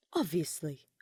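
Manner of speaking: whispered, curt and deadpan; dry whisper. A narrator's reading. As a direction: breathe it out as a dry put-down.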